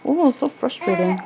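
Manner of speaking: hammed-up little huff of frustration; mock frustration. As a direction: imitate a frustrated toddler, lightly. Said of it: "Now she does it".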